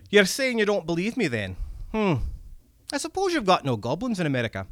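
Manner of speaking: high, excited Scottish goblin; wheedling little red cap creature voice. Acted. Goblin speaks in story.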